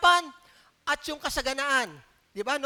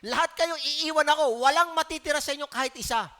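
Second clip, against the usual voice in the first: quoting Jesus; 5 dB louder than usual. Retold or imitated. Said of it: "sabi niya sa mga disipulo niya".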